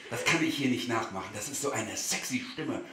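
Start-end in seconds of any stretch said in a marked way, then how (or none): 1.3-2.8 swooning. Acted. Swooning over her voice.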